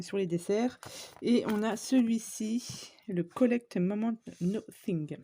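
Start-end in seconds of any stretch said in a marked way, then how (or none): 3.2-5.2 English product name read slowly with a French accent. Real, not acted. Crafter apologising for her English, in a French accent. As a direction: stumble through the English title the French way. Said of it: "Excusez mon anglais".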